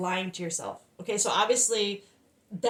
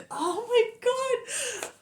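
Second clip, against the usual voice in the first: hyped; 5 semitones higher, much slower than usual. Real, not acted. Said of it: "I'm so hyped and happy".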